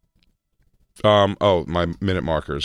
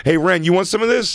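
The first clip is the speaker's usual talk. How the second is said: tough guy voice; 11 semitones higher, 4 dB louder than usual. Retold or imitated. Acting out a street guy.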